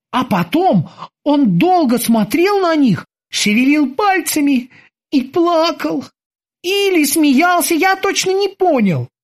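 high, eager sailor's voice; squeaky dutiful boatswain. Acted. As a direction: report to the captain like a keen young sailor. Boatswain Kiki tells.

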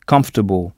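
"comfortable" with the OR nearly swallowed, KUMF-tuh-bul; barely audible OR. Shown as a demonstration. Teacher pointing out a barely heard OR in "comfortable". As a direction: let the OR in "comfortable" almost vanish, pitch dropping. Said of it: "O R est à peine audible".

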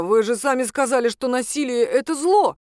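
throwing the priest's words back at him; taken aback. Acted. Ex-husband struck by the priest, indignant and shocked. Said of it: "опешил Сергей".

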